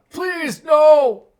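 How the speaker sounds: high, loud begging cry; desperate plea. Acted. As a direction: beg for your life in terror. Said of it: "and then he goes".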